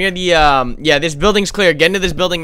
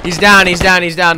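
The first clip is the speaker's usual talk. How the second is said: man down shout; 3 semitones higher, 6 dB louder than usual. Real, not acted. Callout after a kill.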